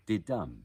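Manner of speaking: didum with weak DI and strong DUM; iambic stress. Shown as a demonstration. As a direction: say didum stressing the second syllable. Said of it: "An iambic rhythm goes".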